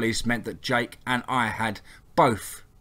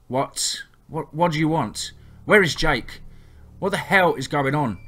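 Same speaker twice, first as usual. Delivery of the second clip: frantic, loud, stammering questions; panicked shouting; 5 semitones higher, 4 dB louder than usual. A narrator's reading. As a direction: shout it out in terror. Captive demands answers in panic.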